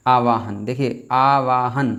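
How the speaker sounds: आवाहन drawn out slowly as the wrong form; wrong spelling read out. Shown as a demonstration. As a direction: say आवाहन slowly, stretching each syllable. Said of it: "ये वाला बिल्कुल पढ़ने में ही गलत लग रहा है".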